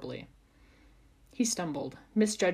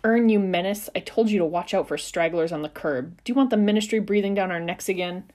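shouting; 8 dB louder than usual. Acted. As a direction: shout at the driver. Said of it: "she shouted at the driver".

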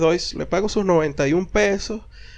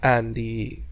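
mock hurt; 7 semitones lower, 7 dB quieter, much slower than usual. Partner sulking, told sadly.

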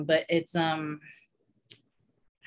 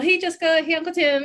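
cheery greeting; 9 semitones higher, 4 dB louder, faster than usual. Retold or imitated. Neighbor greeting in ER.

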